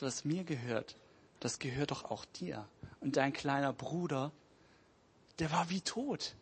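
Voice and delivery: soft, gentle reassurance; calm father. Acted. Father gently answers his angry older son, softly. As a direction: calmly win the angry son back. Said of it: "schaut ihn einfach nur ruhig an".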